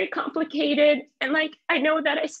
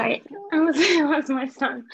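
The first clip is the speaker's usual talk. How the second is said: laughing through a quick apology; sheepish laugh while apologising; embarrassed laugh; 4 semitones higher, 4 dB louder than usual. Real, not acted. Laughing apology about her son.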